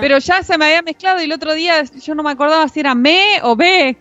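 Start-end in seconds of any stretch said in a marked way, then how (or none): 2.9-4.0 sheep bleat. Retold or imitated. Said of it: "que dice la oveja".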